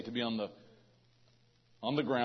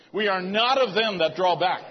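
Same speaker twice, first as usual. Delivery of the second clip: a bit more fervour and volume; with more passion; 4 semitones higher, 5 dB louder than usual. Shown as a demonstration. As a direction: say it again with passion. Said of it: "Say it with a little more passion".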